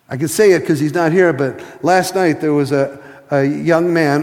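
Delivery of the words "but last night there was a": ordinary delivery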